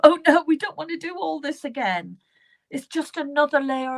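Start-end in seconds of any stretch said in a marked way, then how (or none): 0.0-2.2 higher-pitched pretend protest; mock reluctance. Reader voices reluctance to repeat the work, mock protest. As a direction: lightly whine it on the client's behalf. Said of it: "You're like".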